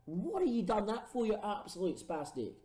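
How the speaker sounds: high, incredulous rant at the player; exasperated outburst. Real, not acted. Gamer yelling at his red-carded striker, exasperated. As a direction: berate the player who just got sent off.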